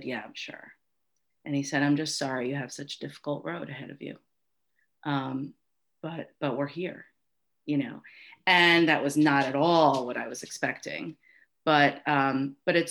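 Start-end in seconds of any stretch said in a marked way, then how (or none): 0.0-8.0 softly, holding back emotion; quiet and a little choked up, retelling a tender moment; tender, subdued and emotional; getting emotional. Real, not acted. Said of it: "now I'm gonna get all emotional".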